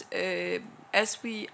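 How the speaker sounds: ordinary talk, nothing marked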